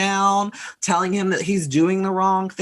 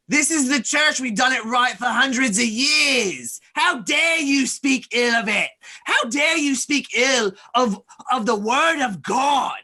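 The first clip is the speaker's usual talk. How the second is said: angry churchgoer; 5 semitones higher than usual. Acted. Churchgoer yelling at the stranger, indignant shout. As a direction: bellow it like an offended zealot defending his church. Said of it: "looks your way and is like".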